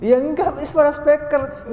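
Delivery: high, loud mock objection; mock insistence. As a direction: insist loudly with the pitch way up. Acted argument over speaker's voice. (pura-pura ngotot, nyaring dan tinggi)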